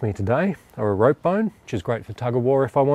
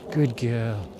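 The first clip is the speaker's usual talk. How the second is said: calm praise; 5 dB quieter than usual. Shown as a demonstration. Trainer calming Lizzie the dog after play, soft calm praise. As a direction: settle the dog down gently. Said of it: "change the tone of my voice to being nice and calm".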